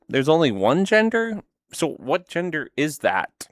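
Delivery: high, incredulous question; genuinely confused, voice jumps up; baffled. Real, not acted. Baffled reaction to claim.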